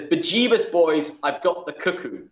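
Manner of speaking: put-on a light Irish accent, "Bejeebus" flung up high; slight Irish accent. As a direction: quote the sergeant with a touch of Irish brogue. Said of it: "hard not to do with a slight Irish accent".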